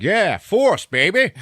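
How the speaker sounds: high, loud whoop breaking into a laugh; hammed-up laughing cheer; hyped cheer. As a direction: whoop it up for the Force. Blind guy hyping the Force.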